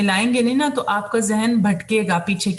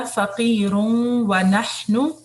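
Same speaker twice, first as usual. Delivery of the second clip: slow melodic tajweed recitation; Quran recitation; much slower than usual. Shown as a demonstration. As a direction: chant the verse slowly and evenly.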